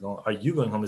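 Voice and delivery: accusing stress on "you", falling; "Are you going home?" said as an accusation, falling. Shown as a demonstration. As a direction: point the finger with "you". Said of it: "it sounds more accusative".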